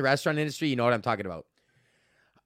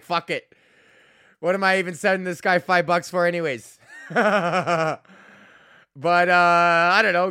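laughing; 3 semitones higher, 6 dB louder than usual. Retold or imitated. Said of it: "And eventually you're like".

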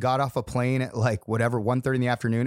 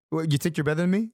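light mock Boston accent. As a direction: toss out a Boston catchphrase. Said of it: "fun to do the Boston accent".

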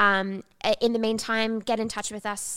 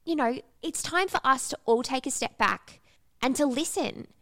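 after crying; 5 semitones higher than usual. Real, not acted. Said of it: "I'm getting a bit teary".

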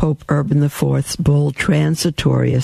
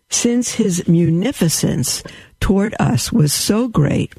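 devotional reading; 3 semitones higher than usual. Acted. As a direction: read it like a prayer of praise. Reads papal bull aloud.

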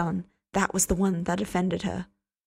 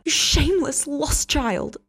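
high, loud scolding cry; 8 semitones higher, 4 dB louder, slower than usual. Acted. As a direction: scold him as a lost child. Hester scolding loudly.

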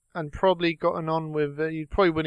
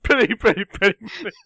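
imitating him; 3 semitones higher, 4 dB louder than usual. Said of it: "You sound like me, too".

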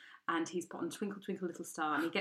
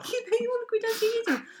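very high, loud mocking squeal; mock outrage; 6 dB louder than usual. Telling the rejection story, high mocking squeal. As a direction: squeal the complaint in mock disbelief.

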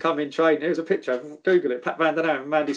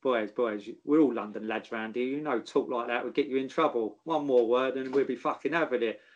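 low, hard warning to the lads, lightly voiced; quietly threaten, a hint of a hard man; menacing warning; 3 semitones lower, 5 dB quieter than usual. Dennis Wise warning young players, lower menacing voice. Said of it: "Wisey, and he said".

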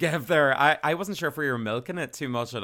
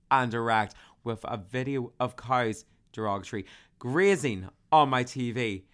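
dramatic reading. Acted. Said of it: "That was a lovely dramatic reading".

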